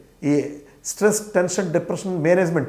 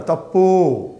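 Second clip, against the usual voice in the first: firm, raised "తప్పు" cutting her off; 5 dB louder, much slower than usual. Retold or imitated. Speaker to the bank clerk, firmly raised voice. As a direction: say "తప్పు" sharply, voice lifted. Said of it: "అని voice పెంచి అన్నాను".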